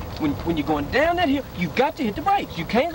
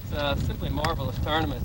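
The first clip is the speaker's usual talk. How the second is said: mock pro golfer voice; 8 semitones lower, 5 dB quieter than usual. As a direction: play a smug tour pro.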